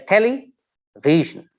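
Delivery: "television" slow, broken after tele; syllable by syllable. Shown as a demonstration. Teacher giving a polysyllabic example, slowly split into syllables. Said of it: "we have four syllables".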